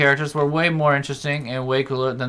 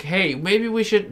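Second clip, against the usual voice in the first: much higher, slow hesitant suggestion; mock timid voice; 10 semitones higher, 4 dB louder than usual. Voicing the teammate who tries to warn the tank, high mock hesitation. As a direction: play the ignored teammate meekly. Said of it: "it's like".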